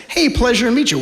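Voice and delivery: high, loud, hammed-up hello; hearty greeting. A stranger shaking hands, hammed-up and loud. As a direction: greet like a glad-hander, overdone.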